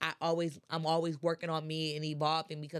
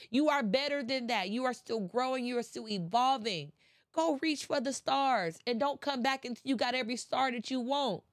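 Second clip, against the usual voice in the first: motivational yelling; 3 semitones higher than usual. Real, not acted. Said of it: "I'm sorry for yelling at y'all".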